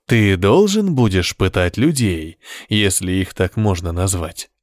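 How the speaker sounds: slow, even, unhurried tone; calm voice. Acted. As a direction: say it coldly calm. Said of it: "спокойным голосом". (спокойным голосом)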